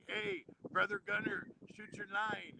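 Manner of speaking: high-pitched imitation of someone calling over; mimicked bartender. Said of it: "came over and was like".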